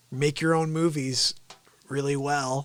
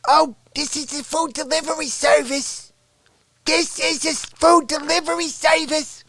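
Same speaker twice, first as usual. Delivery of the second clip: put-on service voice; 10 semitones higher than usual. Voiced phone answerer.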